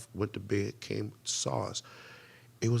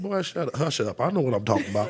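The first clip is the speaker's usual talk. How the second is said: put-on mother's Southern accent; 3 semitones higher, 4 dB louder than usual. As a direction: brush off a son in Southern speech. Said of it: "make my mother's Southern accent come out".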